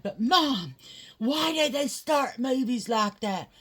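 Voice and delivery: put-on high and loud whiny child. Son asking mom why movies start sad, high whiny child voice. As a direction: voice the upset little boy pleading.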